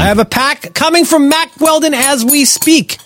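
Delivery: high slow excited brag. Acted. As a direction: gush about it slowly. Excited ad read.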